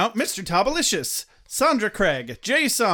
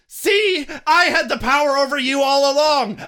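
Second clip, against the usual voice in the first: gloating villain; 5 semitones higher, 4 dB louder than usual. Pretend.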